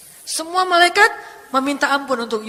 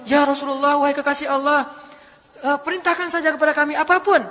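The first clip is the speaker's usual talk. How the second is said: eager urging; 4 semitones higher than usual. Acted. Mountain angel eager to obey.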